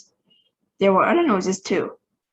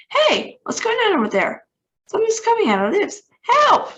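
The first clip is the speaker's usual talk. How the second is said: rising panic, much higher and louder; panicked cry; 13 semitones higher, 5 dB louder than usual. A narrator's reading. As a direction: voice climbs into a terrified yell for help. Manager attacked on the radio.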